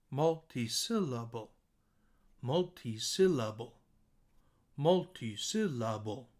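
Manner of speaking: Multi-syllable with SIL highest; measured Multi-syllable, peaking on the middle SIL; stress on SIL. Shown as a demonstration. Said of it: "it's the highest pitch".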